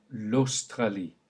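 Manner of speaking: l'Australie with au said as a clear o; l'Australie in French. Shown as a demonstration. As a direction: say Australie with an o. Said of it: "O sound".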